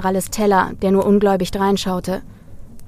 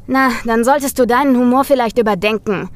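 lurking menace; 3 semitones higher, 4 dB louder than usual. Acted. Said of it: "lauernden Gesichtsausdruck".

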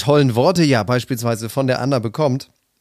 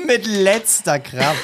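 laughing; 6 semitones higher, much slower than usual. Real, not acted.

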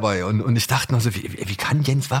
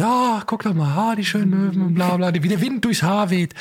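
lightly hammed-up lovestruck boy gushing over the seagulls; swooning Peter imitation; 9 semitones higher than usual. Host mocks Peter's swooning for the co-host, higher dreamy voice. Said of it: "Dieses, diese Schwärmerei".

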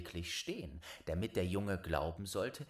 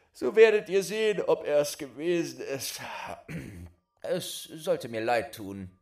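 put-on higher, louder, matter-of-fact boy; boy explaining; 7 semitones higher, 9 dB louder than usual. Boy telling the wife he pushed someone. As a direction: explain it plainly and loudly.

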